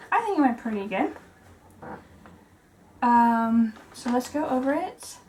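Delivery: talking while catching breath. Real, not acted. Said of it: "Sorry, I'm out of breath".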